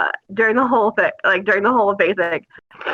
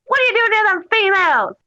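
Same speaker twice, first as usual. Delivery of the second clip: mock drill sergeant bark, pitched higher at the start; yelling drill sergeant; 4 semitones higher than usual. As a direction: imitate a drill sergeant chewing out recruits. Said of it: "He goes".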